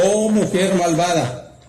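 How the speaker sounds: slow, emphatic retold reproach, without shouting; thundering rebuke, retold. Evangelist rebukes the sick woman, mildly thundering. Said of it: "Hablando en un tono que hizo temblar la habitación".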